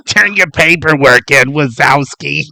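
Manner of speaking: stern, slowed scolding from a gas station manager. Retold or imitated. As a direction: bark it at a late employee. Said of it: "she has the voice of".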